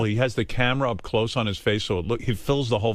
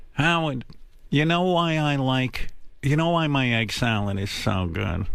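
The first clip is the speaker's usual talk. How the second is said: imitating mother. Mother voiced in a story.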